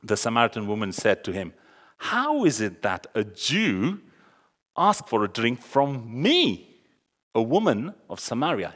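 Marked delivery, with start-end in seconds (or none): 2.0-8.7 mild shock. Retold or imitated. Samaritan woman asking Jesus why he wants a drink, mildly shocked. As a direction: draw out the key words in mild disbelief. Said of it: "She herself is absolutely shocked".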